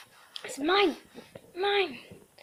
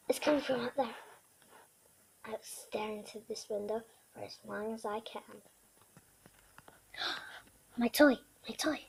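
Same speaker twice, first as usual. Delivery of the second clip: voicing the dog's thoughts; 3 dB quieter than usual. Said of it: "saying stuff of what I feel like she thinks".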